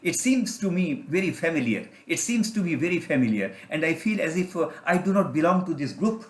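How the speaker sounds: slow, dawning self-discovery; slow inner realisation. Acted. Eagle chick sensing he does not belong, slow and wondering. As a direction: let each word land slowly, as if realising.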